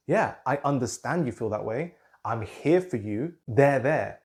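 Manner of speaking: put-on calm the child with presence; gentle reassuring parent holding a toddler; comforting parent. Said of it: "we're doing it more energetically".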